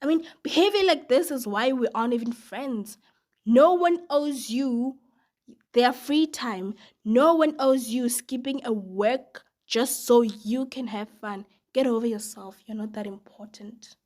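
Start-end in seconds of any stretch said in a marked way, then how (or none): 3.4-14.0 indignant outburst. Real, not acted. Narrator's own indignant outburst.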